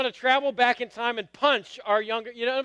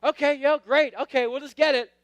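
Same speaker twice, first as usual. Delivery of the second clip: higher, louder forced agreement; raised-pitch, awkward giving in; awkwardly agreeable; 5 semitones higher, 4 dB louder than usual. Retold or imitated. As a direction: act out going along with it to escape an awkward moment. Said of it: "It's, like, really awkward".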